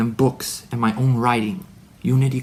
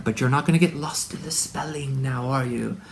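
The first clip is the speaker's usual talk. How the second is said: teasing whisper. Acted. Aside to listener, teasing.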